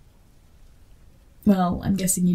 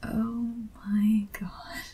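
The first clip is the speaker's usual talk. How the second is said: stunned whisper; 6 dB quieter, much slower than usual. Acted. Fan realizes she met the author.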